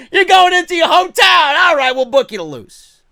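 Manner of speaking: high, loud mock shout; hammed-up taunting holler; mocking jeer. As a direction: jeer like a gloating boss. Voices WWE mocking hometown wrestlers.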